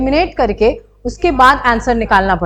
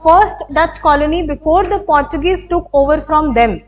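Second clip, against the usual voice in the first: reading a quiz line; much slower than usual. Shown as a demonstration. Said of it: "ऐसा कैसे हो सकता है?".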